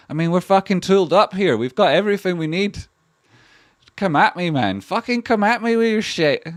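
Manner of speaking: loud, high taunting challenge at trolls; mock tough shout. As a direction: yell it like squaring up for a fight.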